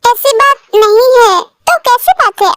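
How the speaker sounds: slow, bashful, half-crying denial; embarrassed bride brushing off questions; shy embarrassment. Acted. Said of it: "अब ये भी शर्मा गई". (शर्माते हुए धीमे से)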